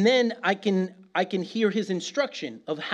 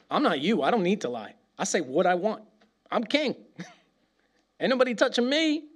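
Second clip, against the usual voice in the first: swaggering king; 3 semitones higher than usual. Pretend. God voiced as confident king.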